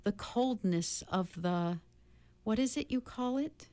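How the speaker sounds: a lightly voiced kind beast explaining gently; gentle beast.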